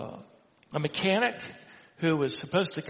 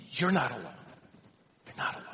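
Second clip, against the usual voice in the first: quiet, pastoral comfort; gentle reassurance; 4 dB quieter, much faster than usual. Retold or imitated. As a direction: reassure tenderly, dropping softer on the repeat. Voices comfort to a widow.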